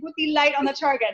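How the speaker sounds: lightly imitated Spanish accent. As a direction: quote the man with a hint of Spanish accent. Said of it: "It was like this guy saying".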